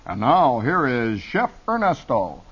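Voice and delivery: lightly voiced unctuous announcer, drawn out; slow, oily show introduction; hint of a smarmy announcer. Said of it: "this unctuous announcer would say".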